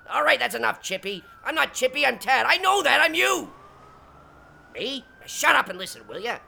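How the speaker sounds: arguing with himself. Acted. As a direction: argue with yourself like two people. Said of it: "now I'm talking to myself".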